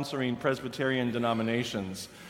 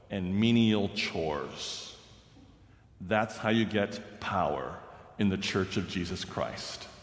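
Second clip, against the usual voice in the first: lightly voiced solemn old churchman; grave old clerk; 4 semitones lower than usual. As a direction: weigh every word like a stern elder.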